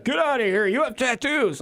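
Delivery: high, dismissive snob voice; snooty high mock voice. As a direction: sneer it out like a rude clerk. Rude theater staff voiced.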